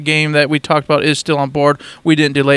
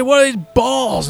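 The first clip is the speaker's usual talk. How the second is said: higher-pitched mock confusion; mock baffled question; 7 semitones higher than usual. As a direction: ask it in hammed-up bewilderment. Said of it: "You say".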